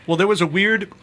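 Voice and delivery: talking through a mouthful; words round a bite of donut; mouth full. Real, not acted. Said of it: "everyone's gonna hear that I have something in my mouth".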